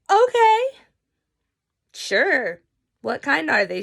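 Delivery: high, loud burst of eagerness; stoned kid suddenly eager for cookies, loud and high; eager yes. Retold or imitated. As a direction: jump at the offer.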